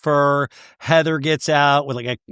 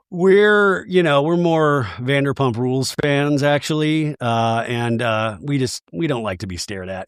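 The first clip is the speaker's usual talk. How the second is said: snooty bison voice. Pretend. Voicing bison in imagined reality show.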